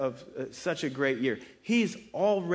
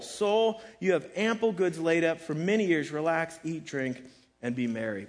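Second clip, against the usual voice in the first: rich farmer planning; 4 semitones higher, 4 dB louder than usual. Acted. Reading the rich man's words.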